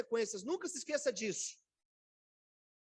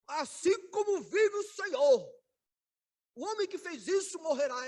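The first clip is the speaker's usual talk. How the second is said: solemn furious oath; 6 semitones higher, 5 dB louder than usual. Retold or imitated. Preacher replaying David's self-condemning oath, loud and high. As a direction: declare the death sentence with full force.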